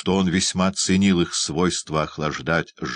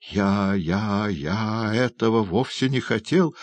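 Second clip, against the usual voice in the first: higher, whiny stammered excuse; whimpering; 4 semitones higher than usual. A narrator's reading. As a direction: whine your innocence. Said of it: "захныкал Ноэ". (хныча, оправдываясь)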